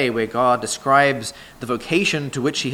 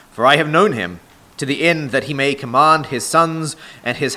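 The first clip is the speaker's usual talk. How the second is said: measured, solemn Bible reading from the pulpit; scripture reading; 3 dB louder than usual. Acted. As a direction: read the verses aloud to the congregation, weighty and deliberate.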